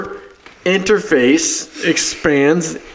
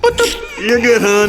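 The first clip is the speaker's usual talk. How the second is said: cashier voice; 7 semitones higher than usual. Pretend. Voicing cashier Florine.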